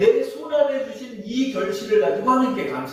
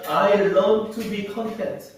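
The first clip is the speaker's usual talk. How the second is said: very slow recitation; much slower than usual. Shown as a demonstration. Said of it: "우리에게 필요한 것은 뭐다?".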